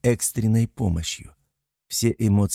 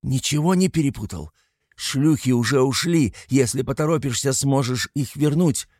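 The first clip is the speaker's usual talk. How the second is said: high, mocking sneer; scornful taunt; 6 semitones higher than usual. A narrator's reading. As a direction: sneer it with contempt. Continuing angry taunt. (язвительная насмешка)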